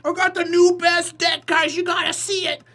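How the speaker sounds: eager deck pitcher. Retold or imitated. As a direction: hype up a brand new deck idea. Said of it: "the one fat dude who always has a brand new idea".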